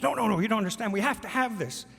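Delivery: urgent, excited protest, mimicking a mother. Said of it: "she's really excited".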